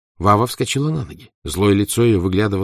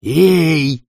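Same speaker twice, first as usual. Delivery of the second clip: bass shout; 8 semitones higher, 7 dB louder than usual. Acted. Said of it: "басом крикнул маленький мальчишка".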